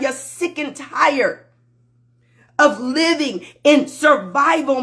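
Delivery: fervent sermon to followers; preaching. Acted. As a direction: preach it with conviction. Live motivational preaching.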